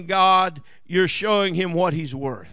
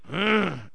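grumbling sigh; 2 semitones lower than usual. Shown as a demonstration. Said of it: "not necessarily what we say, but the".

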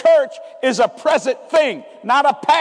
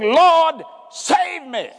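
cried out; 3 semitones higher, much slower than usual. Acted. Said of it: "He cried, saying".

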